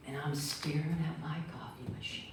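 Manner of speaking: hushed, voiceless narration; secretive whisper. Real, not acted. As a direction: whisper so the guest won't hear. Not waking the guest.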